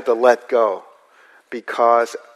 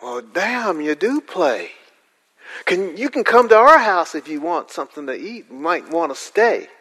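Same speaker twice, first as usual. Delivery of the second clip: rural local; 5 semitones higher than usual. Retold or imitated. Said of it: "and they go".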